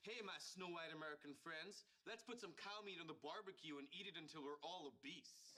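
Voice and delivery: a hint of an American accent; bad American accent. Raj showing off his American accent, barely there. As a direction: try an American accent and miss. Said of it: "your American accent is terrible".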